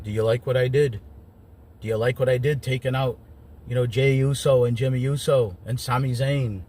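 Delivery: a light put-on Scottish accent, imitating Drew; quoting Drew in a hint of a Scottish brogue; Drew McIntyre accent. Recapping Drew's promo for viewers, in a lightly done Scottish accent. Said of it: "That's my Drew McIntyre accent".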